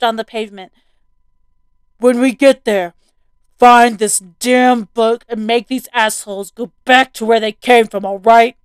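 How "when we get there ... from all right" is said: loud, commanding father; urgent dad voice. Acted. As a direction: bark it over the engine. Dad giving orders while driving.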